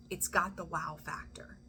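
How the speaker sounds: whispered repeat for effect; awed whisper. Real, not acted. Reader stresses the good news to Scorpio, awed whisper. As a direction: drop to a whisper on the wow factor.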